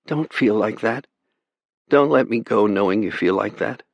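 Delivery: put-on a young girl begging her brother not to despair; pleading girl. A narrator's reading. Sister pleading with her brother over the radio, young and gentle.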